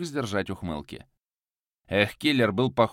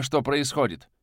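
high, raised angry question; heated demand; 5 semitones higher than usual. Acted. The hero demands an answer from Viktor, raised and angry. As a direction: fling the question at him. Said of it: "Вновь взорвался я".

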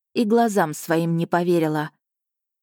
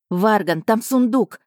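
barking shout; 3 semitones higher, 3 dB louder than usual. Acted. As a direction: shout it at him. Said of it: "рявкнула я". (громкий окрик)

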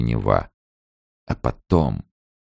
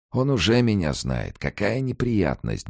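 higher, fretful mutter; muttering old man; 9 semitones higher than usual. A narrator's reading. Morets grumbles to himself about being known, higher fretful mutter. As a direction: fret under your breath like an old man. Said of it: "бормотал Морец".

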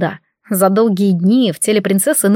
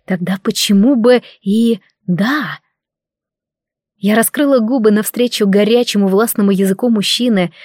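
ordinary delivery

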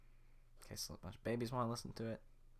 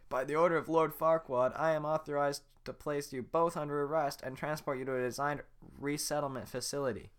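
higher, louder pompous guard; guard arresting Shrek and Donkey; officious guard; 5 semitones higher, 7 dB louder than usual. Acted. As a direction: announce it like a decree. Guard reading arrest order.

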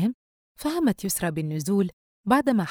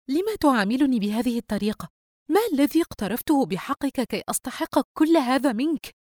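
higher-pitched, wounded appeal; hurt reproach; 7 semitones higher, 3 dB louder than usual. A narrator's reading. Sister asking brother why he treats her so, hurt. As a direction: plead with hurt indignation.

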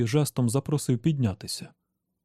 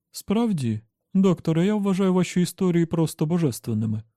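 higher-pitched, mildly gushing admiration; lightly voiced admiring woman; 5 semitones higher than usual. Dawn praises the doctor's stories, lightly gushing. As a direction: flatter the writer with a touch of awe.

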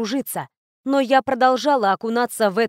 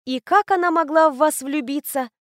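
smirking; 5 semitones higher than usual. Acted. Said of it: "усмехнулась я".

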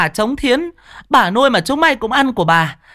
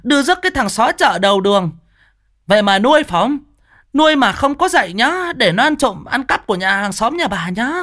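screaming curse; 11 semitones higher than usual. Acted. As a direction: hurl abuse at the thief's family, nonstop. Neighbour's cursing tirade. (chửi rủa the thé, giận dữ)

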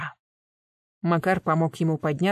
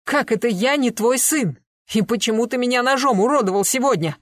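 higher and louder, hurt disbelief; plaintive cry; 6 semitones higher, 5 dB louder than usual. A narrator's reading. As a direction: demand answers with a wounded cry. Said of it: "жалобно вскрикнул".

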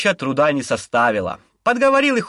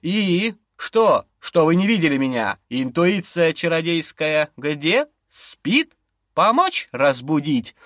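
growling demon; slower than usual. Acted. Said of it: "Он прорычал".

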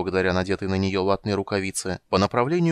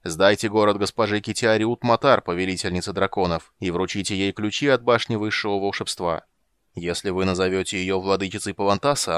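a hint of a voice from the grave; lightly voiced death knight. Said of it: "гулкий замогильный голос".

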